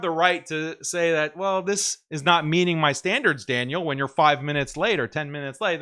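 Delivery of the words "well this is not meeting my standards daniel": mock entitled patron. Imagined patron complaining.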